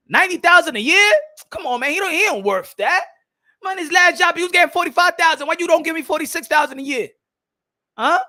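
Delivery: high-pitched mock indignation; mock outrage. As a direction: object like an affronted busybody. Acts outraged meddler in salary talk.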